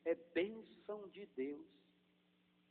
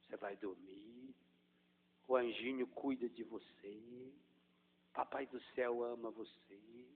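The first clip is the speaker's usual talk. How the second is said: put-on very soft, lower murmur to a sleepy child; softest voice; 5 semitones lower, 7 dB quieter than usual. Shown as a demonstration. Mother lulling her child to sleep, very soft murmur. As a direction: speak as low as you can, lulling. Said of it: "Vai falando no menor tom de voz possível".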